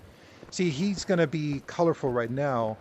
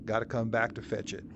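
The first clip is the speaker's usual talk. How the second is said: put-on Southern US accent, a bit louder; 5 dB louder than usual. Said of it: "I'm doing, like, a southern accent".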